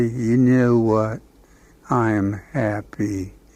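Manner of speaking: sad, very slow, drawn-out cartoon drawl. Describing a character a cartoon creator developed, the speaker quotes him in a Droopy voice. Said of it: "He had a little voice like that".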